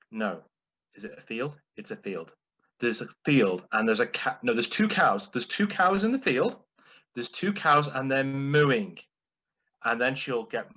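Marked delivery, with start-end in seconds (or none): 0.1-9.0 mum fumbling the joke, correcting herself; flustered mum impression. Son imitating his mum getting the joke muddled, flustered. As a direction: lose track and keep correcting yourself. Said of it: "in the style of my mum".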